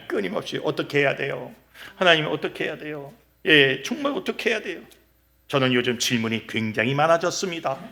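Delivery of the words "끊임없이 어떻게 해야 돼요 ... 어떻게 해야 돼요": softer, small voice of someone asking; lightly acted, insistent asking; questioning God. Believer asking God what to do, softly questioning. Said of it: "끊임없이 하나님께 질문하십시오".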